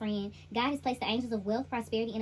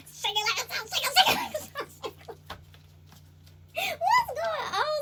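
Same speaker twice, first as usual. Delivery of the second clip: high, loud laughing words; real laughter; 4 dB louder than usual. Real, not acted. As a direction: laugh through the lines. Laughing through reading.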